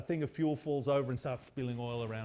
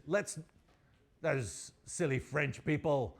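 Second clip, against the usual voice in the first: terrible mock French accent; a hint of hammy fake French; slower than usual. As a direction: put on a bad French accent. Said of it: "with a fake French accent that's so terrible".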